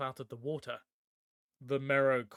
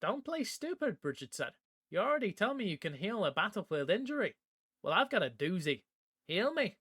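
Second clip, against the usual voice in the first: high, fast, pushy demand; impatient demand; 5 semitones higher than usual. Acted. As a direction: press him hard, no patience. Bridget demands healing, threatening.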